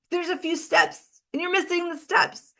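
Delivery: high, laughing mock warning. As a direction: chuckle through a teasing reminder. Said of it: "and it's like".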